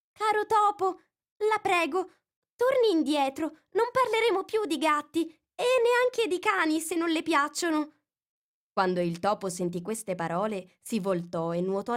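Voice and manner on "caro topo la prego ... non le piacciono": sweet call. A narrator's reading. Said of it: "lo chiamò con voce dolce".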